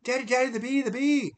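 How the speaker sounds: put-on high, loud childlike cry for daddy; frightened little girl. Crying daughter calling her dad about the bee, high and loud. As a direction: squeal it up high like a panicked six-year-old.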